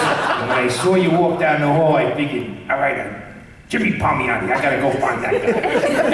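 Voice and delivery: put-on light, friendly old-man voice, lightly done; a gentle nod to Stan Lee's cheerful greeting; Stan Lee impression. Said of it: "as Stan Lee".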